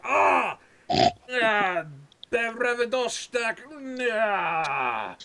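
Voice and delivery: put-on pained cries in a Russian accent; yelping in a hammy Russian accent. Hit in the temple, cries out.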